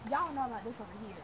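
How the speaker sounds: Hannah Montana twang; Southern accent. Pretend. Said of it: "Stop being the Hannah Montana".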